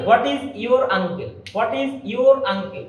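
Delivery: slow model, your linked to uncle with an r; linking R pronounced. Shown as a demonstration. Teacher modelling R before a vowel, r sounded in your uncle. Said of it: "আর এর উচ্চারণটা আমাদের করতে হবে".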